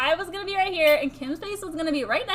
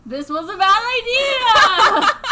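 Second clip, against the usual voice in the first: laughing; 7 semitones higher, 7 dB louder, slower than usual. Real, not acted. Panicking in ghost sheet.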